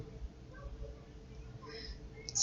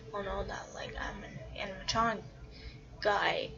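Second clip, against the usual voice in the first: hushed whisper; 6 dB quieter, much faster than usual. Retold or imitated. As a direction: whisper it like a secret. Secret fear voiced in story.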